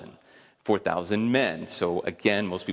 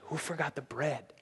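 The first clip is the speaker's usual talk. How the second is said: puzzled disciples; 5 semitones higher, 10 dB quieter than usual. Retold or imitated. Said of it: "They look around and they go".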